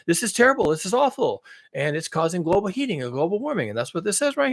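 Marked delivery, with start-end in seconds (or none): 0.1-1.4 mock lament, slightly raised; sarcastic dismay. Mocking alarm over emission cuts, sarcastic dismay. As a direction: deplore it with pretend distress. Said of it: "I'm being sarcastic here".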